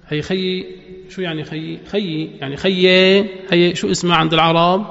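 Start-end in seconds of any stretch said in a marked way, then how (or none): 1.9-3.2 خيي slow, final vowel leaning to e; Levantine imala. Shown as a demonstration. Teacher repeating the imala example slowly. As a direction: stretch خيي with the e ending. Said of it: "إمالة".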